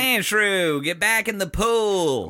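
a hint of country coach, drawn out; country trainer. Imitating the cartoon trainer to Sandshrew, mild country holler. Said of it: "they made this guy country".

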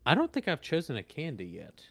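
whispered aside to himself; whispering. Real, not acted. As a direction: breathe it out under your breath.

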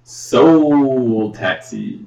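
slow, stretched slogan; drawn-out ad voice. Pretend. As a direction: say it like a cheesy jingle. Plugging the taxi company.

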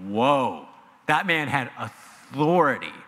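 low awed whoa. Retold or imitated. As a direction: let the awe sink in. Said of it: "It was like".

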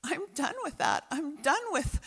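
God fed up. Acted. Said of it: "God is saying".

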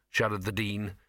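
ordinary delivery, nothing marked

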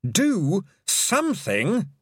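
a strained, hoarse, slow-pushed shout; desperate hoarse shout urging action. A narrator's reading. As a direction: force the words out hoarse with effort. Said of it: "hoarse with effort, shouted".

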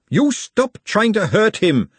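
high, slow, emphatic yell; protective scream. A narrator's reading. Glenda defends Nut from the sisters, screaming. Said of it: "she screamed".

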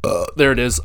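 words through a burp; talking through a burp. Real, not acted. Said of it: "Excuse me, I'm going to, like, burp".

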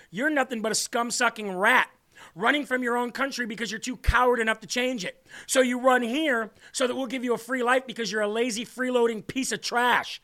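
mock tirade. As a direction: lay into them with building scorn. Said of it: "I wanna see people say".

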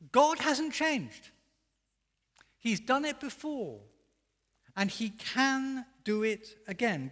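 high, loud and slow, each phrase hammered; bold proclamation. Acted. Preacher voicing Isaiah to the congregation, loud and slow. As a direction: proclaim it as unshakable truth.

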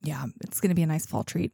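soft unvoiced whisper. Real, not acted. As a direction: whisper it like a secret. Whispered aside.

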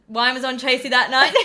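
laughing through the punchline. Retold or imitated. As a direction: giggle the words out.

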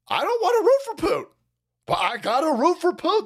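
a quick mock Rogan whine; imitating Joe Rogan. Host mocking Joe Rogan's reluctant rooting, high mock voice. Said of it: "Joe Rogan sitting there going".

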